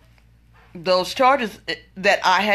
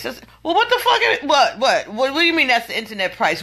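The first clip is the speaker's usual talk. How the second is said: high, loud, laughing what the fuck; outraged buyer sputtering at the dealer, half laughing; laughing outrage; 6 semitones higher, 4 dB louder than usual. Real, not acted. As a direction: explode in incredulous laughter. Furious over internet price excuse.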